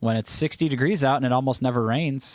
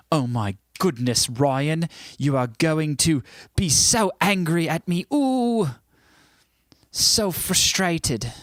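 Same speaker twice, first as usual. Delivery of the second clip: teasing mock frustration; 5 semitones higher, slower than usual. Teasing Ryan's angry reaction.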